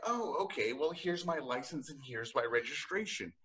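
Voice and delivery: high, sugary polite voice; overly polite driver. Pretend. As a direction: thank the cop sweetly. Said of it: "Then I'd be like".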